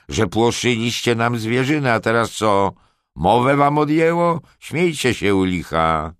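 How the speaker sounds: loud, high, angry taunting of underlings; grzmiący głos. A narrator's reading. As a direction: thunder a challenge, pitch leaping up. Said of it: "zagrzmiał Lorenz". (donośnie, grzmiąco, z gniewem)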